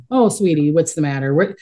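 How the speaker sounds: lightly voiced sweet grandma. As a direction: coo it gently like a granny comforting a child. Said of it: "I talk to them like a grandma".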